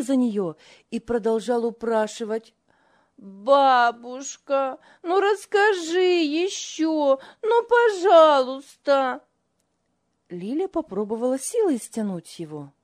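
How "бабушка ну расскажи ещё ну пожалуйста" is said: put-on high, slow child's pleading; child begging. A narrator's reading. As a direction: beg like a little boy.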